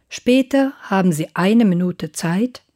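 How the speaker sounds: ordinary talk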